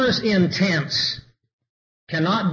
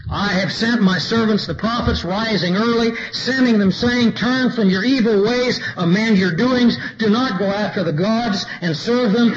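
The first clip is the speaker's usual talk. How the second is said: scripture reading, rising; 3 semitones higher than usual. Acted. Preacher reading the Lord's appeal to his people, raised and pleading. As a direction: lift it up and plead it.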